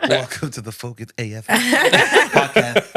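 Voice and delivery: talking through retainers; slight retainer lisp. Real, not acted. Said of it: "We have a slight lisp".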